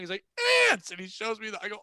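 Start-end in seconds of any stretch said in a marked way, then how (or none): 0.7-0.9 short mock yell; imitated excited outburst; imitated excited scream. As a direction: blurt it like an overexcited customer. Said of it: "he's screaming that".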